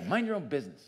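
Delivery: brusque, snippy reading; not nice, a touch of scorn; sneering. Shown as a demonstration. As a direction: say it with a mild sneer. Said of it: "say it with, like, a sneer".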